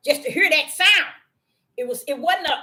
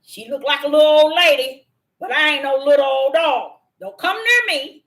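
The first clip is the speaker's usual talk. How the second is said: louder defiant dog; louder, defiant dog warning off the vets; 5 dB louder than usual. Retold or imitated. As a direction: stand your ground like a dog. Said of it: "he still letting them know".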